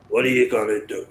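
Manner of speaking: imitating grandfather. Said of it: "Like that".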